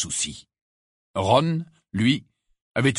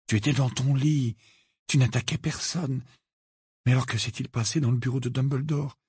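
higher, anxious inner voice; doubting himself; 5 semitones higher than usual. A narrator's reading. Harry argues with himself, anxious and higher.

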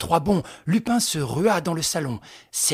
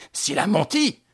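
louder exclamation; 7 semitones higher, 6 dB louder than usual. A narrator's reading. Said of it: "s'écria Lupin".

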